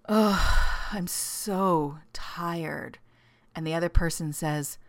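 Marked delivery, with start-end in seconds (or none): 0.1-3.0 weary whispered sigh of a tired spouse; slow worn-out whisper. Retold or imitated. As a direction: breathe it out, slow and drained. Acted tired spouse in imagined couple.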